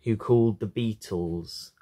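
measured poem recital with pauses; poetry reading. A narrator's reading. Reader sharing a poem about a father, measured recital. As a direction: read the poem line by line, pausing.

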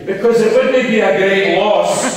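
punchline with a real laugh breaking in; laughing through punchline. Real, not acted. Speaker delivering the joke's punchline to the rally hall, laughing. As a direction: let the laugh spill into the last words.

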